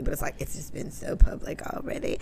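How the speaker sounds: hushed, whispered comment; whispered aside. Real, not acted. Telling co-host a hushed aside about the beef. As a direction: drop to a whisper. Aside after Charlamagne quote.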